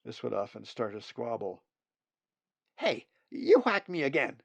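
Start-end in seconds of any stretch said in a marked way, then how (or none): 2.8-4.4 high, louder complaining chick voice; a bird child tattling on a sibling; whiny nestling. Acted. Nestlings squabbling in nest.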